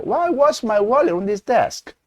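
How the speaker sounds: slow model, "was" stressed, "desk?" falls; falling end. Shown as a demonstration. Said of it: "따라해 보실까요". (따라 하도록 천천히 내리는 억양)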